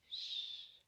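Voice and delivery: soft whispered shush. Acted. Host quieting little readers before the story, whispered shush. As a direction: hush the room gently. Hushing the children to listen.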